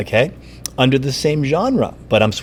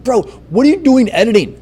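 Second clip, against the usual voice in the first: bro voice; 8 semitones higher than usual. Retold or imitated. Teacher voicing a bro challenge.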